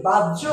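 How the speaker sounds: বাহ্য as "bajjo", with no breath on the j; common mispronunciation. Shown as a demonstration. Teacher quoting a common mistake, বাহ্য as bajjo. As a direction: say বাহ্য as quick bajjo, unaspirated. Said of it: "আমরা অনেকে কি বলি".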